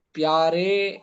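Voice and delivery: پیارے drawn out slowly to a long "ay"; majhool "ay" ending. Shown as a demonstration. Teacher points out the vowel, پیارے ending in a slow, held "ay". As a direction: hold the final vowel of پیارے, "pyaaray". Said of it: "یا مجہولہ".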